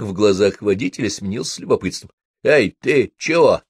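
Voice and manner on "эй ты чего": slow, puzzled questions; clearly bewildered driver. Acted. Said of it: "вполне внятно".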